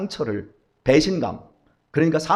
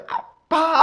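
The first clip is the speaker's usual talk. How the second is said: put-on much higher child's cry; child calling dad; 11 semitones higher, much slower than usual. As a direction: shriek it like a toddler running over. Child running to father. (아주 높은 아이 목소리로 아빠를 외침)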